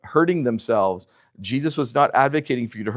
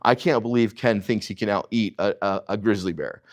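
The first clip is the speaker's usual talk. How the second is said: mock literal listener; 5 semitones lower, 4 dB quieter than usual. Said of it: "Would you hear me say".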